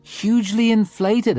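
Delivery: mocking echo. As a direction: throw "hugely inflated" back at him with a smirk. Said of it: "my reputation in that regard is hugely inflated".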